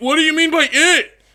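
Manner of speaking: put-on shout. Acting out a kid asking a question: imitating a shout. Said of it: "the kid says at full volume".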